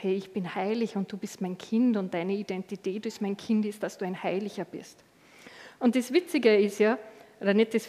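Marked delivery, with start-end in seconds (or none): 0.0-5.0 soft, tender and reassuring; God's gentle voice. Retold or imitated. God reassures his child, softly and tenderly. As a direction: speak softly, like a loving father to his child. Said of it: "Gottes Stimme wäre immer anders".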